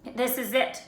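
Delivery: a mild moan of despair. A narrator's reading. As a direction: groan that all is lost. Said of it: "Ron moaned".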